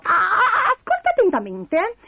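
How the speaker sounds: squeaky creature demanding attention; Pasticciona the mole. A narrator's reading. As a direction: stammer into an important announcement. Mole announces her riddle.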